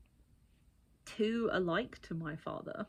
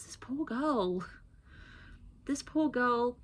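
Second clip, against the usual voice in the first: hushed, breathy sympathy; pitying whisper; 5 semitones higher, much slower than usual. Real, not acted. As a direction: whisper it with sorrow. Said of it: "whispered pity".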